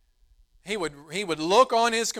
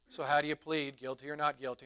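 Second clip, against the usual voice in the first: softer, deadpan judge, no reaction; flat stern judge; 4 semitones lower, 7 dB quieter than usual. Retold or imitated. Judge ignoring the excuses, deadpan and softer. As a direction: stare ahead and repeat it without feeling. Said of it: "He just stares straight forward and says".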